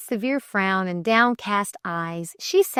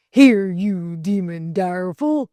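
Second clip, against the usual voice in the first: addressing a dog; 2 semitones lower, 4 dB louder than usual. A narrator's reading. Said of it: "he addressed the white wolfhound".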